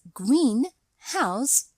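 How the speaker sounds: slow; separate words. Shown as a demonstration. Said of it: "is an adjective plus noun".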